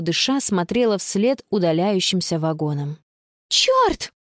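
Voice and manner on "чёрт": sharp high curse; cursing. A narrator's reading. Girl seeing the train leave, cursing. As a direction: spit out the swear. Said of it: "выругалась она".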